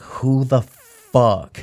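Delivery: drawn-out disbelief; incredulous. Retold or imitated. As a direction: stretch it out, baffled. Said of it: "I'm just like".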